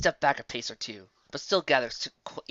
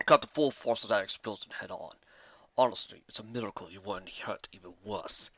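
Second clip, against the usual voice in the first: put-on gentle elderly stallion; kindly old mentor, lightly voiced; old wizard voice; 4 semitones lower, 3 dB quieter than usual. A narrator's reading. Starswirl voiced.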